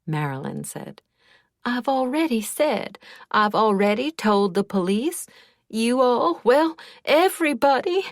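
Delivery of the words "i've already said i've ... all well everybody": building from raised to much higher and louder; climbing toward panic on each phrase; voice rising. A narrator's reading. Questioned witness losing composure, voice rising. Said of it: "Her voice rose".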